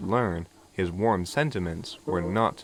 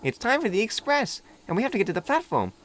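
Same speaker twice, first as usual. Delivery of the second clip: put-on a young engine shyly making friends; little diesel meeting Duck, high and eager; friendly little diesel; 11 semitones higher than usual. A narrator's reading. Philip high.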